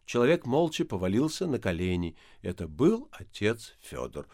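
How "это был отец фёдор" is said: usual speaking voice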